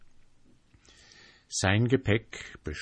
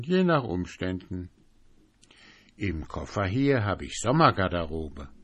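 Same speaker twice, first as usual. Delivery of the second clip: a touch higher, changeable, airy voice; lightly voiced fickle fellow; 4 semitones higher, 3 dB louder than usual. April describing himself to the sentry, lightly fickle. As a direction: shift lightly between moods.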